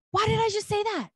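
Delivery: very high, baffled question; high-pitched mock disbelief; retold bewilderment. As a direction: imitate someone astonished at their own words. Friend amazed at her own words.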